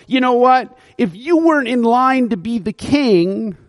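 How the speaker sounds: grumbling mock complaint at the king; a touch of bitter blame; frustrated. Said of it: "he's frustrated at King David going".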